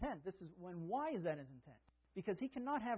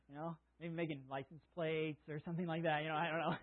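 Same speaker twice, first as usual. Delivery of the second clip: laughing. Real, not acted. Joke about jail license plates.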